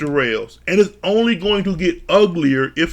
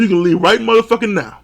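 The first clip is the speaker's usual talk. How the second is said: angry command; 4 semitones higher, faster than usual. Retold or imitated. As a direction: throw him out. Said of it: "She told him".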